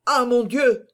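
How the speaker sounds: startled exclamation; taken aback. A narrator's reading. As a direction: recoil in alarm. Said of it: "articula Planchet, en se reculant".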